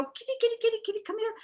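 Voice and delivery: high, soft coaxing kitty call; calling the cat. Retold or imitated. Coaxing the cat in the kitchen, high and soft. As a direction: coax the cat over in a high sweet voice.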